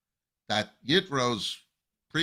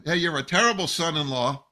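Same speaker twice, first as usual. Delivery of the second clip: raised, louder mock scolding; mock reproach; 4 semitones higher, 6 dB louder than usual. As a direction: imitate a father-in-law telling someone off. Acting out father-in-law's reproach.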